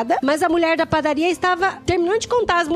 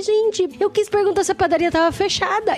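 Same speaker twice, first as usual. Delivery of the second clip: mildly exasperated retold protest, pitched up; frustrated; 4 semitones higher than usual. Learner insisting on what she asked, mildly frustrated. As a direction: replay your frustration at not being understood. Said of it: "Mas eu fiquei tão frustrada".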